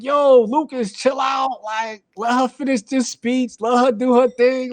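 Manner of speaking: high, urgent mock plea; urging calm. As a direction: talk a friend down fast. Telling Lucas to calm down.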